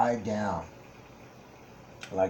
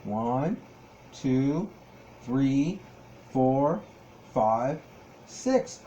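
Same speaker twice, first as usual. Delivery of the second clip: put-on teaching a child to count; much slower than usual. Shown as a demonstration. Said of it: "Can you count with me?".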